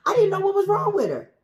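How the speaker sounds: very high, loud squeal of excitement; excited screaming. Real, not acted. Plant owner discovering the fuzzies on her plant, screaming excitedly. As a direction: shriek it in delighted disbelief. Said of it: "I'm sorry if I screamed".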